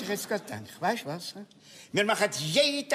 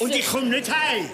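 shouting; 5 semitones higher, 4 dB louder than usual. Acted. Stubborn refusal in quarrel.

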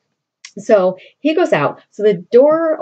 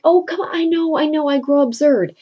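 sheepish lover; 7 semitones higher than usual. Retold or imitated. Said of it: "he's like".

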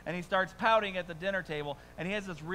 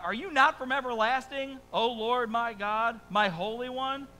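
higher, louder, slow impassioned prayer; Habakkuk's plea; 7 semitones higher, 8 dB louder than usual. Acted. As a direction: cry it to God like a prophet. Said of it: "this is Habakkuk's response now to God".

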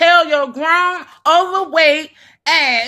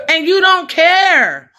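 angry scolding. Real, not acted. Scolding the girl for laughing, building to a shout. Confronting her on camera.

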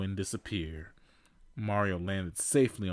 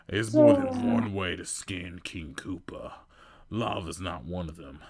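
Bowser chuckle; 5 dB louder than usual. Acted. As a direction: gloat over them. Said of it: "Bowser chuckled".

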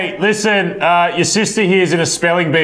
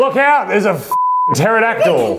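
mock alarm; 5 semitones higher than usual.

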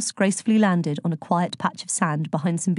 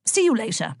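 breezy, amiable farewell with a higher start; 4 semitones higher than usual. A narrator's reading. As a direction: toss off a friendly goodbye. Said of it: "said Zeus amiably".

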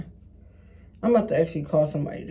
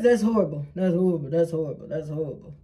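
fading dismay; faster than usual. Real, not acted. Judging her edges under hair.

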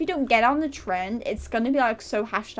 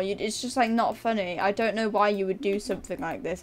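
mock disappointed lecture; 2 semitones lower than usual. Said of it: "so out of character".

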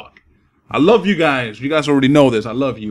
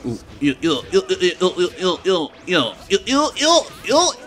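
rising string of ew, ew, climbing higher; disgusted ews; 6 semitones higher than usual. Real, not acted. Gamer reacting to an opponent's move with rising disgust. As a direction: pile up the ews, each one more grossed out.

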